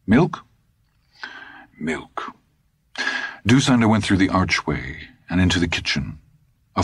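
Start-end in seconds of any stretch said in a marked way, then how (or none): 0.1-0.4 eager question. Acted. Todd asks, Dusander echoes flat. 1.8-2.3 flat reply. Acted. Dusander's flat echo of the boy.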